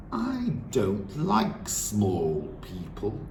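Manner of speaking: slow, drawn-out disdainful headmistress. Acted. Headmistress lecturing the children, slow and disdainful. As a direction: savour the contempt.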